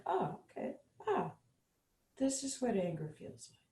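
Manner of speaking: soft, noticing voice with a sigh; calmly notice the feeling, quietly; gentle acknowledgment. Shown as a demonstration. Mindfulness teacher modeling calm self-talk about anger, soft.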